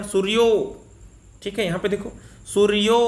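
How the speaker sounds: teacher isolating the ओ of सूर्यो; stressed ओ sound. Shown as a demonstration. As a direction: lean on the ओ in सूर्यो. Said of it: "ओ का उच्चारण".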